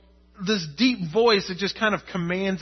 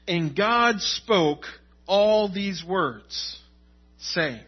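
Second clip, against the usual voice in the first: slow, measured Bible reading; solemn, spaced-out verse reading; scripture reading; much slower than usual. Acted. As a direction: read the verse with deliberate weight. Reads the verse aloud.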